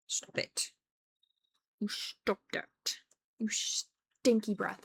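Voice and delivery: slow teasing whisper. Real, not acted. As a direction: hush it at the pet. Whispering at the pet.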